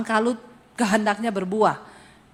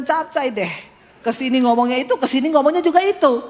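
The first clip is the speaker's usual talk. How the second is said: exasperated laughing; 2 semitones higher, 4 dB louder than usual. Retold or imitated. Holy Spirit exasperated, laughing.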